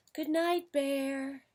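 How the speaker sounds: high, drawn-out mouse call; soft goodnight. A narrator's reading. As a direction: sing out a high little goodnight. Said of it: "said Mouse softly".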